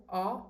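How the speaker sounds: "ah" as an open o, like the aw in law. Shown as a demonstration. Teacher showing students the open O, "ah". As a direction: open rounded "ah". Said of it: "open O".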